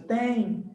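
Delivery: "tem" with an audible final I glide; pronunciation demo. Shown as a demonstration. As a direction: say "tem" as a nasal tẽi. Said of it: "isso aqui é a pronúncia".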